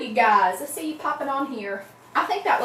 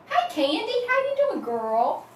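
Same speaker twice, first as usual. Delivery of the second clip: excited greeting; 12 semitones higher than usual. Real, not acted. Greeting a viewer in chat.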